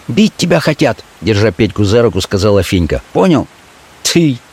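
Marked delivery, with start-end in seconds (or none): 0.1-1.0 high urgent woman's voice; a street girl warning her man; Fenka warning. Acted. Fenka's voice held. 3.1-4.4 high urgent woman's voice; a street girl warning her man; Fenka warning. Acted. Fenka's voice held.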